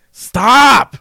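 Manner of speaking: loud, high drawn-out stop; mock protest shout. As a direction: yell it in comic exasperation. Protesting at being laughed at.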